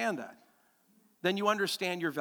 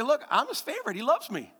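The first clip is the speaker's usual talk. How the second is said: put-on boastful child; 6 semitones higher than usual. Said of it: "I get to say".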